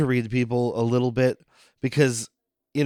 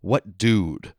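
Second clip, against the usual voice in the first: mock Giancarlo deadpan; 4 semitones lower than usual. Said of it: "And he's like".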